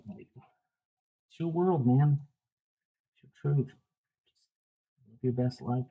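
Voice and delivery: slow, sarcastic life-coach voice; mock inspirational. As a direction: poke fun with dreamy slogans. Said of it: "Live, laugh, love".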